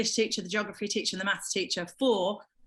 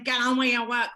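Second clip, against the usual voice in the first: a hint of the English teacher, muttered sideways; out of the side of the mouth; 4 dB louder than usual. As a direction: lightly mimic the teacher saying "Get on with your work" from the side of his mouth. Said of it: "out the side of his mouth".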